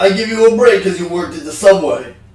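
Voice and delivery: thick, exaggerated Italian-American accent. Improvising a cop giving someone a break: Sylvester Stallone cop voice. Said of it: "That's a little too Italian".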